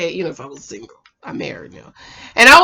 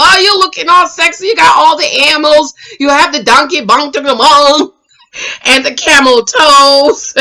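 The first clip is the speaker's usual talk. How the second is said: loud; 4 semitones higher, 5 dB louder than usual. Retold or imitated. Acting Hollywood's loud compliments.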